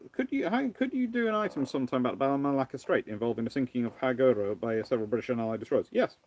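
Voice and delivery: usual speaking voice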